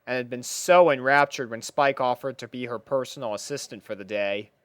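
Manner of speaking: usual speaking voice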